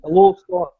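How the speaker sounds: light put-on Scottish accent on "I love Scott". Guest answering the host's dare with a Scottish accent. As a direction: try a Scottish lilt on "I love Scott", tentative. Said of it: "you're gonna have to try a Scottish accent now".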